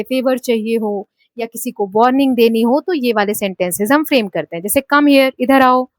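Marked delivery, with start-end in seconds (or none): 4.8-5.3 "Come" pushed hard, "here" falling away; stress on come. Shown as a demonstration. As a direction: hit "Come" and let "here" drop. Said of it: "come पे बोलते वक्त हम ज्यादा force कर रहे हैं".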